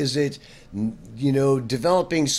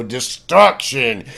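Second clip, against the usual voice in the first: loud, drawn-out mock doom; mock dramatic; 6 dB louder, much slower than usual. Guitar teacher lists movie emotions for students, mock dramatic. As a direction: stretch it out with heavy drama.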